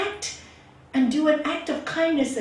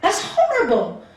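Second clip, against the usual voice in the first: harsh judgement; 4 semitones higher, 5 dB louder than usual. Retold or imitated. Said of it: "You don't have to say it like that".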